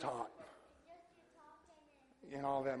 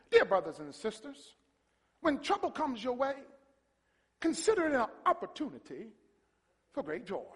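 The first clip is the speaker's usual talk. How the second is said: nice loving tone, higher through the middle; Paul; 7 semitones higher than usual. Acted. Paul writing to troubled believers, nice loving tone. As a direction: read the letter sweetly, lilting upward, then settle. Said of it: "a nice, loving tone, Paul said".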